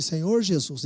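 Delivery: low, soft, slow prayer; soft, low prayer line to repeat. Shown as a demonstration. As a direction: lead the prayer gently. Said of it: "Fala comigo assim".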